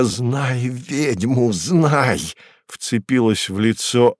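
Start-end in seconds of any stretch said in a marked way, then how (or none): 0.0-2.2 slow drawn-out howl of a witch. Acted. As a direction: wail it like a furious witch. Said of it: "завывая".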